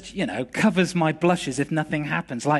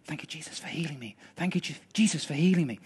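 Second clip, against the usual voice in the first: very soft, hushed thanks; barely voiced prayer, then soft; whispered prayer; 2 semitones lower, 7 dB quieter, faster than usual. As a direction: whisper it into someone's ear, easing into a murmur. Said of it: "I just whispered into his ear".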